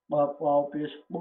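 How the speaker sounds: পু held long with an alif-length pull; teacher demonstrating the long পু; stretched reading. Shown as a demonstration. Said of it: "টান দিয়ে আমাদেরকে পড়তে হবে।".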